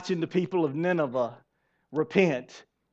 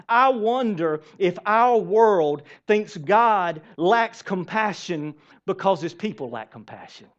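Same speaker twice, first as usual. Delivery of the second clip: preaching; 4 dB louder than usual. Real, not acted. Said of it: "I might have just started preaching".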